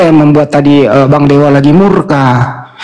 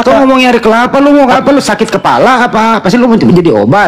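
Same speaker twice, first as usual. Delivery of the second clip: exasperated; 6 semitones higher than usual. Real, not acted. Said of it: "kenapa jadi kesurupan Abang-abang polisi ini".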